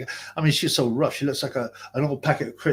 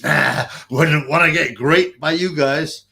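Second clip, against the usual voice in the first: lieutenant impression; 7 dB louder, slower than usual. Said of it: "He goes".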